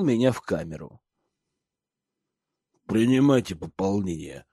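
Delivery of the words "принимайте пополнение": gurgle the words out like a pudgy guard; gurgling voice. A narrator's reading. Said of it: "произнёс он булькающим голосом".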